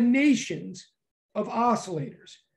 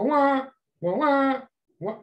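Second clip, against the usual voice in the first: imitated wave sounds; 3 semitones higher, slower than usual. Shown as a demonstration. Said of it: "I can't even do it".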